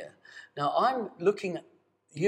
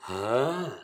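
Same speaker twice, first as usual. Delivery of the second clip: breathy ah; 3 semitones lower than usual. Shown as a demonstration. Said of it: "use my breath on my voice like this".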